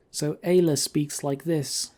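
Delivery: a mild put-on female voice, a little slow; Ayla's voice. Shown as a demonstration. Player demoing his character Ayla's voice, lightly put-on. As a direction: barely shift into your character's voice.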